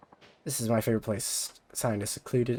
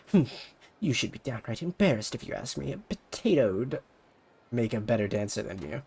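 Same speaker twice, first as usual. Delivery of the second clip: a snobby idol mocking her dancing; sneering rival idol; 4 semitones higher than usual. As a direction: drag out the insults with contempt. Ulala mocks dancing.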